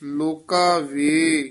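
"ਲੋਕਾ ਵੇ" slow, lengthened "ਵੇ", then a halt; pause placement. Shown as a demonstration. Teacher marking the pause, slow "ਲੋਕਾ ਵੇ" with halt after "ਵੇ". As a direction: draw out "ਵੇ" and stop. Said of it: "ਇੱਥੇ ਠਮਕ ਲਾ ਦੇਣੀ ਹੈ".

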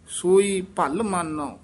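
"ਭਲ" pressed slightly firm; firm, compact "ਭਲ"; tightened word. Shown as a demonstration. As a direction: tighten "ਭਲ" in "ਸੋਈ ਭਲ ਮਾਨੋ". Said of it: "ਭਲ ਪਦ ਥੋੜਾ ਜਿਹਾ ਕਸ ਕੇ".

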